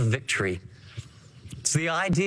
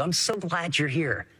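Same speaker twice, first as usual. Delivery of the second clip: warm welcome; 2 semitones lower than usual. Shown as a demonstration. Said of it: "that's a lot better than".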